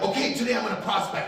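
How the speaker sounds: fast, high chirpy eagerness; hammed-up fast eager salesperson; mock eager. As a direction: chirp it like a fired-up rookie.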